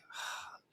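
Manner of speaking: long unvoiced weary sigh; big sigh. Teacher sighing over a drained student, big sigh. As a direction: let out a heavy tired sigh. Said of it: "a big sigh of like".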